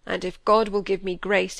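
put-on old Yorkshire squire, full of grief; heavy-hearted old man's lament; grieving old squire. A narrator's reading. Squire grieving over grandson.

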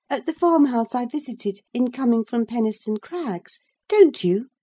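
put-on high, bright girlish voice, pleading; a lively girl begging to go on; eager young girl. Cathy chattering eagerly.

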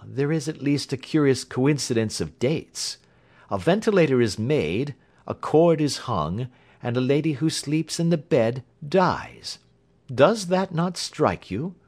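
knowing detective, pitched a little up; Holmes voiced. A narrator's reading. Holmes lays out the clues.

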